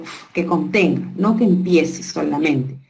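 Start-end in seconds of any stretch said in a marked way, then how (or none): 0.0-0.3 "f" as a bare puff of friction; isolated phoneme. Shown as a demonstration. Teacher setting a colouring task on a sound, isolated phoneme. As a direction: blow out "f" with no vowel. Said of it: "contenga el sonido".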